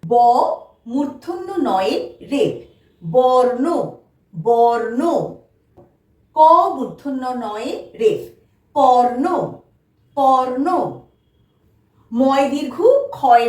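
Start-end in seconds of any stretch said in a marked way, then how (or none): 3.0-5.0 careful teacher's বর্ণ, r before n; model pronunciation. Shown as a demonstration. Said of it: "আমরা কিভাবে উচ্চারণ". 8.8-10.7 careful teacher's কর্ণ, r before n; model pronunciation. Shown as a demonstration. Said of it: "আমরা কিভাবে উচ্চারণ".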